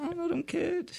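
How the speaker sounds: high, slow whisper; breathy secret reply; mock whisper.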